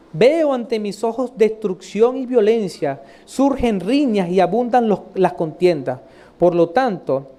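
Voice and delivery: measured, emphatic Bible reading; scripture reading. Acted. Preacher reads prophet's lament, measured recitation. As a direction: read aloud with weighted key words, falling at the close.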